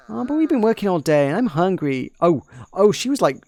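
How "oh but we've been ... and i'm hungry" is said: higher-pitched servant voice without the accent; a lightly voiced worker complaining. Shown as a demonstration. Servant girl whining about hunger, without Cockney. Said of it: "I gave her, like, a Cockney accent".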